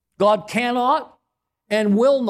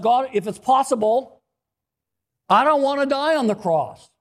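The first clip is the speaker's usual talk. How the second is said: Jesus pleading; 4 semitones higher than usual. Retold or imitated. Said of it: "So his prayer request".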